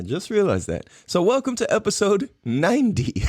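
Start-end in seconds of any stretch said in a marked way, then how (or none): 2.4-3.2 "ninety" as "nine-dee", higher and about to laugh; playful nine-D. Shown as a demonstration. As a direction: announce "ninety" jokingly as the letter D. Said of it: "Like the number nine and the letter D".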